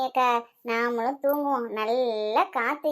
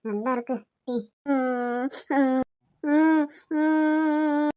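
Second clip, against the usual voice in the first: mock crying; 2 semitones lower, much slower than usual. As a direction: fake a sudden little cry. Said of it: "அழுகுறீங்க திடீர்னு". (போலி அழுகை)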